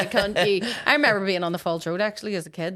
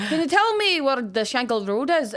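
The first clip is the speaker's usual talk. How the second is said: higher-pitched, lightly hammed-up Scottish; mock Scottish accent; 5 semitones higher, 4 dB louder than usual. Lost lorry driver asking for directions, imitated Scottish accent. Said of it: "he was, like, Scottish".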